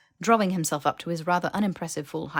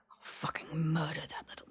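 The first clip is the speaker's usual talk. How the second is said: grumbling threat; 8 dB quieter than usual. A narrator's reading. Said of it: "grumbling threats".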